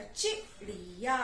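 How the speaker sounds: चिड़िया slowly as "chi... ri... yaa"; sounded out. Shown as a demonstration. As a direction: blend चिड़िया piece by piece. Teacher blends the spelled syllables.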